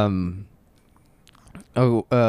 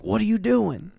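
put-on child's startled question; 9 semitones higher than usual. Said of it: "he's like".

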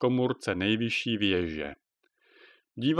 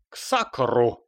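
cursing. Acted. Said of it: "křikl".

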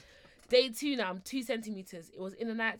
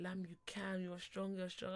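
soft, gentle retold encouragement; imitated begging; 3 semitones lower, 9 dB quieter, slower than usual. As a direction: plead softly, urging her on like a husband. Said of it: "he was begging me".

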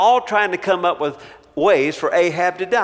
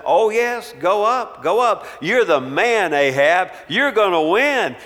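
raised, mock-eager go up, go up; sarcastic mockery; 5 semitones higher, 5 dB louder than usual. Micaiah mocking King Ahab with sarcastic fake encouragement. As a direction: egg the king on with fake cheer. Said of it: "some sarcasm in his voice".

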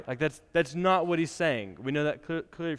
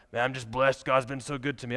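mildly hammed-up holy-talk voice, a touch lower; put-on pious voice; 3 semitones lower than usual. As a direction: play the humble-bragging churchgoer, lightly. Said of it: "I keep using that voice".

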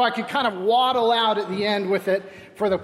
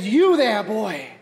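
put-on old Scrooge calling out; slower than usual. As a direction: hail the boy from the window like old Scrooge. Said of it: "And he said".

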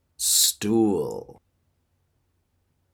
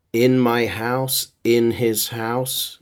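Spanglish; 3 semitones higher, 4 dB louder, slower than usual. Shown as a demonstration. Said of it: "Muy Spanglish".

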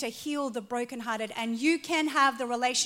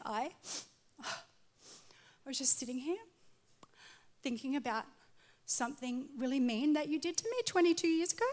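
softer, halting, pauses between words; hesitant grievance; 2 semitones higher, 5 dB quieter, faster than usual. Retold or imitated. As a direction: work up to the old complaint carefully. She hesitantly raises old grievance.

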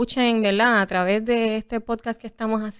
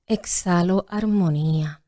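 yoga teacher voice; 3 semitones lower than usual. Shown as a demonstration. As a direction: gently guide the exhale. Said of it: "en tu voz de maestra de yoga".

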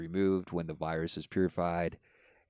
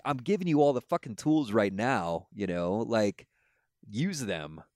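a touch of mock-exasperated God; 3 semitones higher than usual. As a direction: throw up your hands as God. Speaker voicing God.

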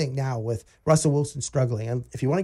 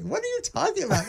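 much higher, incredulous retort; retold disbelief; 13 semitones higher than usual. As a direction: replay your shock at the caller, pitched way up. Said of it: "I'm like".

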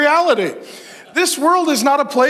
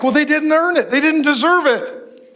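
mock protest; 6 semitones higher than usual. Preacher voicing men reluctant to bless their employees, mock protest. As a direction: imitate a grudging objector, pitched up. Voices the men's objection to blessing.

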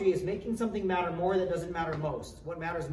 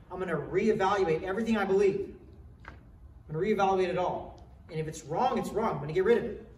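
resolute vow; 2 semitones higher, 5 dB louder than usual. Acted. Modelled vow of a believer.

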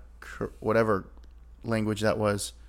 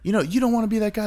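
imitating Jonah Hill; 10 semitones higher, faster than usual.

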